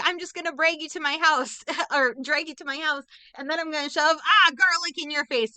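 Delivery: mock creepy man. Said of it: "he's like".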